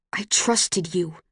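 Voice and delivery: shaking with rage; बहुत धीमा, दबा हुआ ग़ुस्सा; slow, restrained rage. A narrator's reading. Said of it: "his body shaking with rage".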